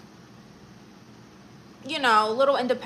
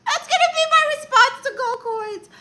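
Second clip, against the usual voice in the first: high, loud, giggling words; giggly laughing aside; laughing through it; 10 dB louder than usual. Real, not acted. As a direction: talk while cracking up. Still laughing after the joke.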